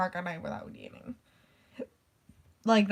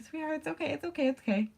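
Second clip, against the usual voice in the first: retold reassurance; 7 semitones higher, faster than usual. Friend calming a flustered classmate, imitated high reassurance. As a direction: coo reassurance, lightly acted.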